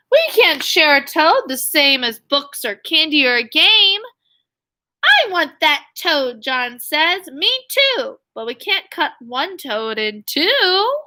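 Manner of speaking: lively, sing-song storybook read; bouncy picture-book reading voice; reading to children. A narrator's reading. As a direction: read the rhyme aloud to young kids. Teacher reading picture book aloud.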